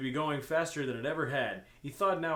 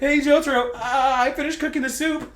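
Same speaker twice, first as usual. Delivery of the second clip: higher, louder, laughing call; voicing Kakyoin; 12 semitones higher, 13 dB louder than usual. Kakyoin calls to Jotaro about the soup, laughing. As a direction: call out to him while half laughing.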